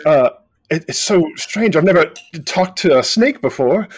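lightly voiced wide-eyed boy; boy character voice. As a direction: marvel at the talking snake.

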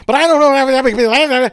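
high, slow, drawn-out whine; whiny mock excuse. Mocking the employee's weak excuse, high and slow.

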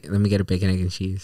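"bacon, egg, and cheese" run together like one whole word; "bacon, egg, and cheese" as one continuous word; run-together New Yorker order. Shown as a demonstration. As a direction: order like a New Yorker, words linked without gaps. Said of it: "say how they order the bagels".

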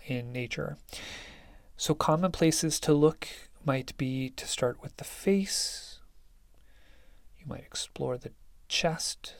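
unhurried meditation guide with long pauses; guided meditation. Acted. Teacher settling listeners into meditation, calm, spacious guiding voice. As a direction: lead them gently through it, leaving space between phrases.

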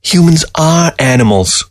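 high, breezy fox voice; unconcerned fox. Acted. Fox unbothered as he is cut, breezy and high. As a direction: toss it off without a care. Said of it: "seemingly unconcerned".

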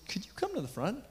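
hushed whispered request. Retold or imitated. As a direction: whisper it like you don't want the room to hear. Asking a man forward in service.

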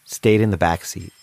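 reflective storyteller voice looking back; story narration. A narrator's reading. Henry recalls staring at Sia, calm narration.

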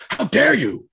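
high, sharp outraged snap; mock furious boss. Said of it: "he's like".

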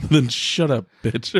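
lightly voiced rude robot, laughing; half-laughing robot insult. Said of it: "in a robot voice".

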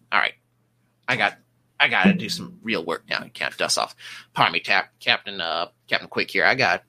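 bossy small-time officer blustering; gruff portly man. Acted. GM voices portly ship officer.

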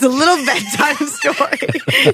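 high, laughing bedtime-story voice; teasing, sing-song nursery tone; mock-babying. Mocking a tuck-in bedtime scene.

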